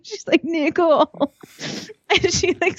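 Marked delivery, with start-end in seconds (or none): 0.4-1.3 high, crying mock yell of Nicole; imitating a screamed name. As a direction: wail the name in mock fury. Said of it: "screams it in her face".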